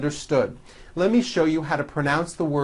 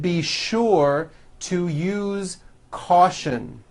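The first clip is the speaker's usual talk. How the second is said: slow, careful model reading; teacher reading drill sentences; practice sentence read; slower than usual. Shown as a demonstration. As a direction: read each sentence clearly to be repeated.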